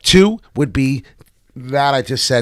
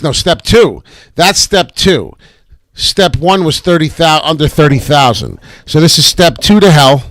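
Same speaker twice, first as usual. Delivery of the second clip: louder warning; 3 semitones higher, 6 dB louder than usual. Real, not acted. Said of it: "warning viewers of crash".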